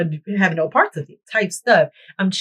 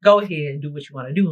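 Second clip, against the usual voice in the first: lower, laid-back coach, quicker at the end; relaxed coach voice; 5 semitones lower than usual. Retold or imitated. The coach giving the class free time, laid-back. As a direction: wave them off easy like a chill coach. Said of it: "he would give us free time".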